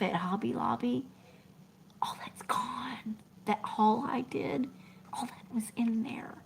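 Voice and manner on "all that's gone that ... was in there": mournful whisper. Real, not acted. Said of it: "sighs over her lost haul".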